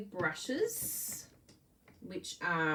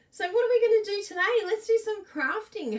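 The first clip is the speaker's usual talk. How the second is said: much higher and louder, fast, bubbly show opener; excited host intro; 14 semitones higher, 10 dB louder than usual. Real, not acted. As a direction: launch the session like a cheerful presenter. Host kicks off the crafting session.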